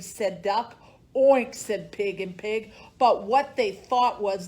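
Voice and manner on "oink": oinking pig. Acted. Pig's reply in story.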